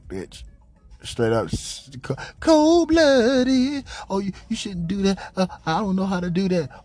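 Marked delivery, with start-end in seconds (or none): 4.1-6.8 higher, fast whiny mimicry; mock fretting. Mocking coworker's helplessness, fast whiny voice. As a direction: imitate her fussing quickly.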